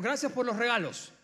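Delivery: agradecimiento irónico, más fuerte; tono irónico. Retold or imitated. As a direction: gracias dichas con ironía burlona. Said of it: "en un tono muy irónico le dijo". (la madre anciana agradece a sus hijos, con ironía)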